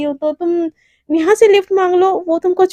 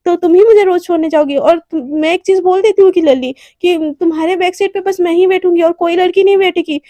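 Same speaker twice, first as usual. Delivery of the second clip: jealous scolding; 3 semitones higher, 5 dB louder than usual. Acted. Jealous Devika scolding Radhika in the car, loud. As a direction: scold her possessively.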